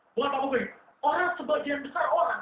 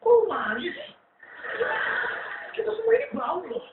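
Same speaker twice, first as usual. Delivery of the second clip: cockroach friends; 4 semitones higher than usual. Acted. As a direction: tease the perfumed one as a jeering roach. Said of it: "dia main kayak".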